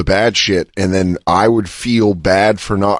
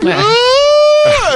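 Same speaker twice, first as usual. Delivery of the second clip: much higher, louder imitated child shriek; kid's scream; 5 dB louder than usual. Scared little kid shrieking back at them, high loud shriek. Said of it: "the kid was like".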